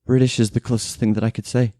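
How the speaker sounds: high, shaken woman's voice; traumatized woman telling her ordeal; frightened housekeeper. Acted. Housekeeper answers.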